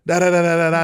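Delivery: mock fast talking in nonsense syllables; super-fast talker. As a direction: imitate rapid-fire foreign chatter. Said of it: "he talks super fast".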